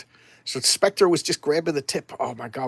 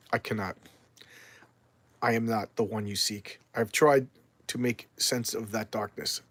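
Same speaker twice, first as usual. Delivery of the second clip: Swamp Thing; 2 semitones lower than usual. Acted. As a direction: answer in weary surrender.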